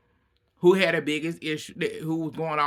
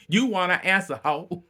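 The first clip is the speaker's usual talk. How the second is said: laughing; 3 semitones higher, 3 dB louder than usual. Retold or imitated. Laughing through a retold taunt.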